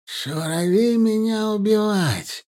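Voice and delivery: high, slow, strained captive's voice; through gritted teeth. A narrator's reading. Captive Mukhtar threatening his captor, through gritted teeth. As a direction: force the broken words out through clenched teeth. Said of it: "протянул сквозь зубы Мухтар".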